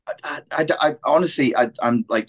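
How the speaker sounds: exasperated stammer; tripping over the words; stuttering. Real, not acted. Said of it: "stuttering with exasperation".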